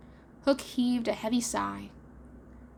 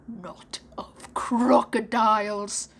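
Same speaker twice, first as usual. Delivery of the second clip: fearful whisper; 6 dB louder, much slower than usual. Acted. Hook corrects, hushed dread.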